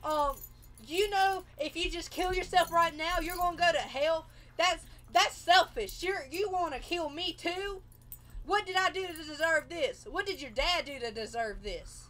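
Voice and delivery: high, loud, reproachful retelling of a parent; angry upset mother. Retold or imitated.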